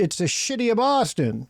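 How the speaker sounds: put-on Boston accent. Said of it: "can't even pronounce shitty right".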